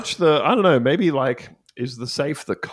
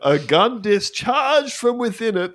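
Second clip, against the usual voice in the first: mock dramatic; 10 semitones higher than usual. Mock dramatic news read.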